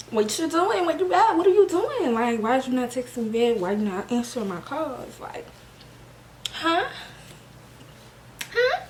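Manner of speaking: hammed-up jealous confrontation, voice climbing; mock angry demands. To her girlfriend who won't text back, mock angry.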